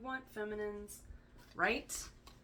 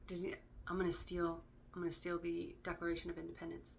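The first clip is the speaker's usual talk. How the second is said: Nicolas Cage impression; 6 dB quieter than usual. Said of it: "I'm already doing it in his accent".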